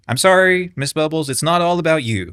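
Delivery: sing-song condescending sorry; sarcastic mock apology. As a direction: pretend to pity her while teasing. Mock apology to a rival creator.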